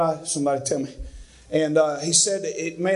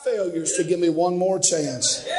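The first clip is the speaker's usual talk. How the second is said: much higher, slow, ringing shout that drops back at the end; hallelujah shout; 8 semitones higher, slower than usual. Acted. Preacher crying hallelujah to the congregation, an exultant shout. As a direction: shout it out, then settle.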